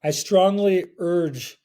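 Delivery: slow, slurred jet-lagged speech; slurring words. Real, not acted. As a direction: drag and slur the words, exhausted. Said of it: "But I am slurring my words a little".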